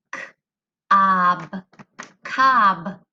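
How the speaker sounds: "K-" then "ob", blended to "cob"; sounding out. Shown as a demonstration. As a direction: split the word, then join it. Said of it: "The next word".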